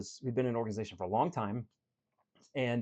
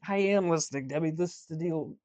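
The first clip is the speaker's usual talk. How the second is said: higher and louder, firm and exasperated; frustrated coach; 4 semitones higher, 5 dB louder than usual. Retold or imitated. Coach firmly answering a stubborn client, frustrated. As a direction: push back, losing patience. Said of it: "I'm getting frustrated".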